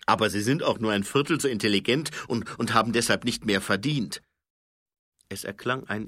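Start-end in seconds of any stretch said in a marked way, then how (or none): 0.1-4.2 fast, louder indignant retort; insist, getting worked up; Fred arguing hotly about pay; heated argument. Acted. Colon argues about trolls.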